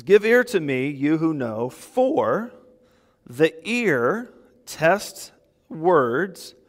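slow, measured Bible reading; scripture reading. Acted. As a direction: read each phrase slowly and deliberately. Reads scripture aloud.

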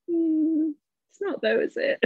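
sarcastic retort. Pretend. Sarcastic retort to his blame.

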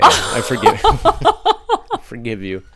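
laughing through the words. Real, not acted. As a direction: giggle mid-sentence. Forgiving friend while laughing.

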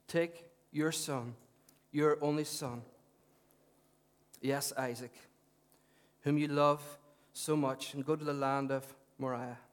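measured public Bible reading, spaced phrases; scripture reading. Real, not acted. Preacher reads Abraham's testing to the congregation, measured scripture reading.

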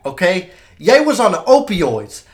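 loud, high-pitched celebrity rant; hammed-up rapper impression, drawing out key phrases; impression of a famous rapper. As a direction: imitate a star ranting at the room. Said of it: "I'm gonna do my impression of him".

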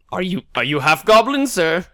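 high, puzzled in-character question; odd character voice. Acted. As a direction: ask it high in the oddball hero's voice.

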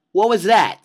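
a high, loud, puzzled "what was that". Retold or imitated. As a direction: act baffled by a strange feeling. Voicing his own confusion.

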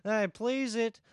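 put-on broken English in a Borat-style Russian accent; lightly put-on Russian accent, bragging. The Russian guest tells his karaoke night, Russian accent. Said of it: "your accent kinda trailed off".

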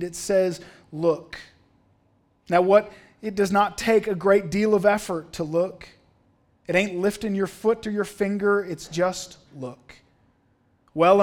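lightly voiced earnest country preacher; a hint of homespun pulpit emphasis; fumbling lay preacher. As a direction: labor each point like an untrained preacher. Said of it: "this preacher fumbling his way through".

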